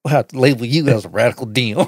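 lightly put-on country hick accent; a hint of rural Southern twang, mocking a pushy political text. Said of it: "a country ass hick voice".

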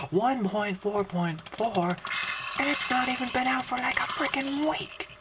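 rising, incredulous complaint; exasperated rant. Real, not acted. Rants about constant version changes.

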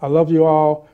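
ordinary delivery

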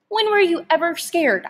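high challenging question. A narrator's reading. Son challenging his father. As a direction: dare him to answer. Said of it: "I challenged him".

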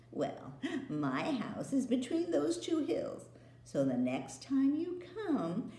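put-on witch queen instructing the boy. Queen voiced.

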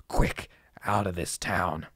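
urgent unvoiced whisper; trembling whisper. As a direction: whisper it in panic. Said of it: "as a trembling whisper".

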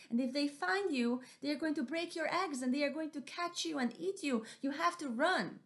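high, loud urgent alarm; panicked mouse deer. Acted. Mouse deer running back to warn Missus Owl. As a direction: warn her breathlessly, danger is near.

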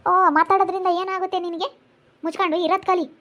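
sharp rebuke. Acted. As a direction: challenge her, then shut her up. Grandmother rebukes the scolding woman. (ಸಿಟ್ಟಿನಿಂದ ಗದರಿಸುವ ಧ್ವನಿ)

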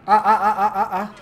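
loud high laughing yell; excited yelling. Real, not acted. Wild yelling while playing.

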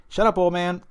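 half-hearted tough-guy impression; Mister T. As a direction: toss off a mild imitation of a gruff tough guy. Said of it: "as Mister T said in Rocky Three".

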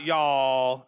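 Y'ALL drawn out slow in a rusty Southern accent; half-lost Southern drawl; attempted Southern accent. Shown as a demonstration. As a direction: stretch "y'all" like a lapsed Texan Southerner. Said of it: "I've really lost my Southern accent".

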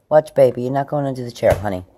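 sharp loving warning to the animal; calling to pet. Real, not acted.

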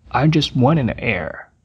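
frase devagar no volume normal; lento, voz normal. Shown as a demonstration. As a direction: repita com calma, sem baixar. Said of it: "juntando as duas palavras". (demonstração lenta, volume normal)

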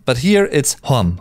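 hom said slowly in place of haben; Austrian hom. Shown as a demonstration. Teacher shows the Austrian hom for haben. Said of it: "people rather say haben".

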